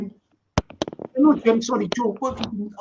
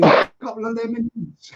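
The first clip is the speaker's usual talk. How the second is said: repeating it through a laugh; 4 dB louder than usual. Real, not acted. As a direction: chuckle the words out, amused.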